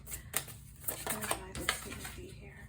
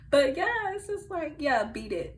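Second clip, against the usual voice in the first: dismissive; 7 semitones higher, 8 dB louder than usual. Acted. Dismissing bad connections, laughing.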